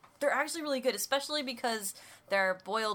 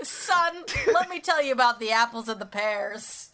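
laughing parody of a father's big talk, louder; a dad sitting his son down, through laughter; mock fatherly talk; 2 semitones higher, 5 dB louder than usual. Talking to son about apples and pears, mock fatherly. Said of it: "bastardized version of the birds and the bees".

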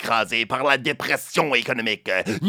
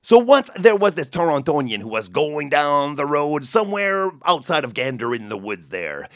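casual Newfoundland storyteller, hammed up a bit; Newfoundland accent; 2 semitones higher than usual. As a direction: tell it in a Newfoundland lilt. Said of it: "avec ma meilleure imitation du merveilleusement charmant accent celtique".

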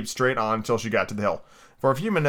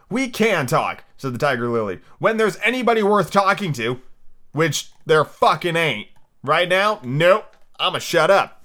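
sassy flower voice; 5 semitones higher, 3 dB louder, slower than usual. Acted. Voiced Tiger Lily, rude.

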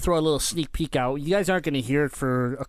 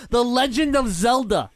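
exasperated shout; 7 semitones higher, 4 dB louder than usual. Real, not acted. Exasperated outburst repeated.

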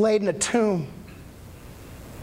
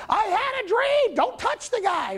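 Pilate's wife impression; 12 semitones higher than usual. Pilate's wife warning him off Jesus, high mock falsetto. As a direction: squeak it out like a fretful wife. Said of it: "that's my impression".

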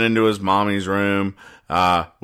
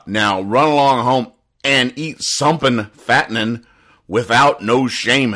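doctor quote; 3 semitones higher than usual. Retold or imitated. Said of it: "he actually says".

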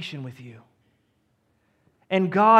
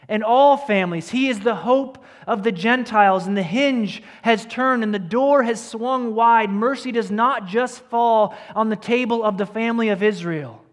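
louder, building proclamation; rising preaching; 3 dB louder than usual. Acted. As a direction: preach it out with growing force. Sermon climax building.

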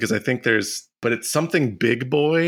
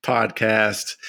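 show intro voice; 3 semitones higher, slower than usual. Pretend. Drawn-out show title.

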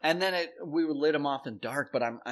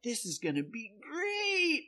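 higher, slow, forced-cheerful; fake cheer; 10 semitones higher, 5 dB quieter than usual. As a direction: put on a smile you don't mean. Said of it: "Externally, I'm like".

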